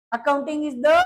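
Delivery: very slow, word by word dictation. Shown as a demonstration. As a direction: spell it out slowly for notes. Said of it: "teacher dictates definition slowly". (धीमे धीमे लिखवाना)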